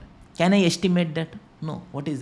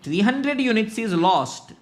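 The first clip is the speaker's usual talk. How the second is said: stock manager reporting; 6 semitones higher than usual. Pretend. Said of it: "He is telling that".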